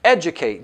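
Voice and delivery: educate said apart, after a pause; stress on educate. Shown as a demonstration. Trainer to sales reps on the key word, educate emphasized. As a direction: set the word educate off on its own. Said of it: "I wanna emphasize the word".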